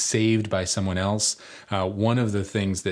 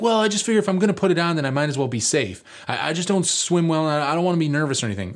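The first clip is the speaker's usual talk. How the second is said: higher, hurried self-justification; imitated anxious friend; 5 semitones higher, faster than usual. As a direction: lightly mimic a nervous kid making excuses.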